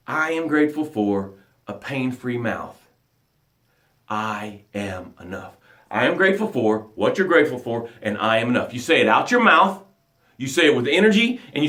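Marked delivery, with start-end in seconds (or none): 0.1-8.7 lower, softer, unhurried declaration; quiet self-affirmation, low and soft. Shown as a demonstration. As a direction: say it gently to yourself. Models the hourly affirmation.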